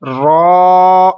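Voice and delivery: रॉ said loud and thick; teacher modelling the right रॉ; heavy full रॉ. Shown as a demonstration. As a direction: give रॉ a full heavy sound. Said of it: "कैसे पढ़ना है".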